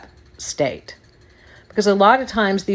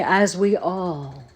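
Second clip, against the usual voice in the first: pompous politician; 4 dB quieter, slower than usual. Retold or imitated. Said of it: "and then they say".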